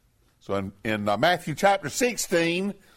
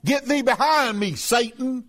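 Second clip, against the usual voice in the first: higher, ringing rebuke; forceful rebuke; 6 semitones higher than usual. Retold or imitated. Preacher voicing Jesus rebuking Peter, forceful and raised. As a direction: cast him back with force. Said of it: "He turned and he said unto Peter".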